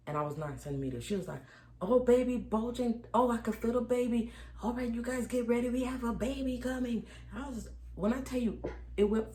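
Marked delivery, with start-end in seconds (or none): 1.8-7.1 excited nurse. Retold or imitated. Head nurse excitedly announcing baby.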